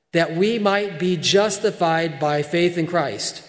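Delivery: deliberate reading, leaning on key phrases; emphatic scripture reading. Acted. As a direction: read it out with measured emphasis. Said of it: "I want you to see the emphasis here by Paul to Peter".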